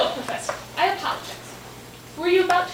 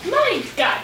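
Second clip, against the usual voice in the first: mock outrage; 4 semitones higher, 4 dB louder than usual. Author mock-appalled at the interpretation.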